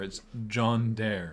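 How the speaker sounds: John Dare, slowly, with no "a" between the words; corrected pronunciation. Shown as a demonstration. Co-host correcting the French boat name, "John Dare" slowly. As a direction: say "John Dare" as two slow beats. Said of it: "It's not John Adair".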